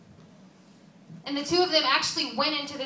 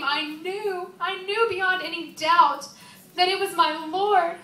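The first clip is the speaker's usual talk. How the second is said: higher, louder, swelling certainty; awed recognition; 4 semitones higher, 4 dB louder than usual. Acted. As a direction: let joyful realization take over. Joyful recognition of Jesus.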